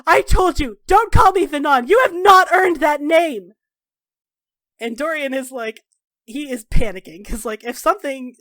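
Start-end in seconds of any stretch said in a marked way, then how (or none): 0.0-3.5 loud, high, commanding fury; furious, emphatic reprimand; enraged shouting. Acted. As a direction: roar it right at them. Storms up, acted quarrel.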